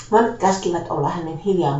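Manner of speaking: usual speaking voice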